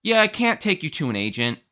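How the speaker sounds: automated voice. Retold or imitated. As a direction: play the phone menu robot. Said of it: "the automated voice goes".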